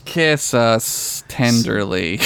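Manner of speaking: slow, drawn-out, hammed-up tenderness; mock tender. Co-host finishing the sign-off plea, mock tender. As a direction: linger on each word as if sweetly pleading. Co-host answers squeaked question.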